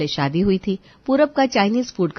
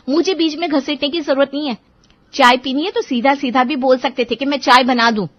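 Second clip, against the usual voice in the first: firm, slightly raised complaint; retorting wife; 5 semitones higher, 3 dB louder than usual. Acted. Wife tells her husband off about the tea, firm and hurt. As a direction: push back, calm but hurt.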